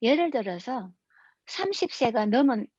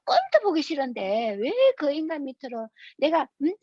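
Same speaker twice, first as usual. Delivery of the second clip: higher-pitched, whining mock complaint with stretched words; retold angry outburst; 4 semitones higher than usual. Wife at insurance office, listed under hated husband, mock-outraged. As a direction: imitate an aggrieved wife protesting. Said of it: "난리가 난 거야".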